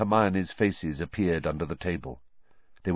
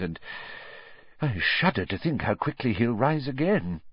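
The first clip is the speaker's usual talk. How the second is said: higher official's voice recalling horror; pompous minister, shaken; 4 semitones higher than usual. Acted. Minister recalls the massacre to the landlady, shaken official voice. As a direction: play the minister haunted by the scene. Fudge character voice.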